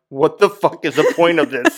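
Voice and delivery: laughing exasperation. Retold or imitated. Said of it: "I'm sitting here like".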